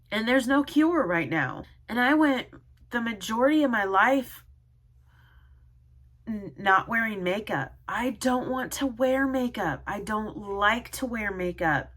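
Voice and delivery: real tearful distress, pitch lifted; close to crying. Real, not acted. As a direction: protest through welling tears. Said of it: "didn't think I was gonna cry".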